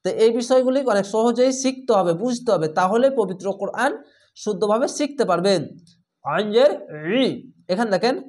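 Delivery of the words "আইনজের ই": আইনজের ই from a squeezed throat, thick. Shown as a demonstration. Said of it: "গলা চিপে মোটা করে পড়বে". (গলা চিপে মোটা করে ই)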